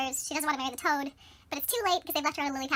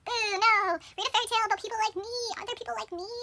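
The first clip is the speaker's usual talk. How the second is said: higher-pitched mock child's plea; childlike pleading; 6 semitones higher, 3 dB louder than usual. Thumbelina asks her mother for a story, childlike pleading. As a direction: open loud, then beg in a higher voice.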